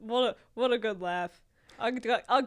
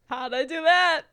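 put-on baby voice; 6 semitones higher, 4 dB louder than usual. Playing baby after soiling himself.

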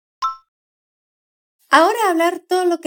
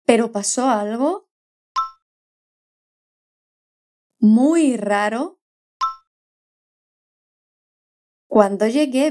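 slow model read; 3 semitones lower than usual. Shown as a demonstration. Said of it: "repites el habla de Pablo".

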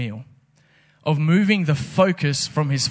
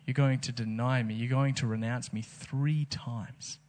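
quiet solemn warning; 5 dB quieter than usual. Retold or imitated. Jesus quietly telling Peter he will deny him. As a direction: let it land gently but firmly.

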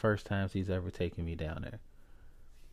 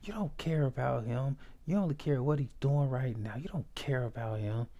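imitating uncle yelling; 4 semitones higher than usual. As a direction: act out the uncle yelling back, slightly raised pitch. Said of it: "He's just yelling back at him".

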